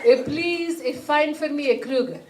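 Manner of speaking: greeting Google like a person; mom talking to phone. Retold or imitated. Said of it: "She's like".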